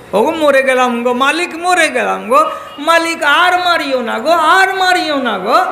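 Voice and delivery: high, wailing plea for mercy; pleading. Acted. Beaten servant boy begs his master to stop, pleading.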